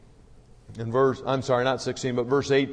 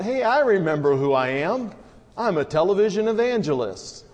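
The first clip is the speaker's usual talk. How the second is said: mild shouted realisation; 5 semitones higher than usual. Acted. Rattlesnake tells the rabbit he remembers who he is, mildly shouted. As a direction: call out a sudden discovery, without full volume. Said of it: "shouts out".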